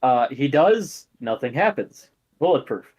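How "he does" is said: usual speaking voice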